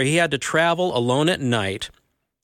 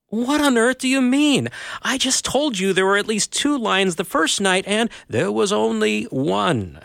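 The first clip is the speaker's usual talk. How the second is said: put-on higher boy's voice; 7 semitones higher than usual. A narrator's reading. Shasta argues with the voice.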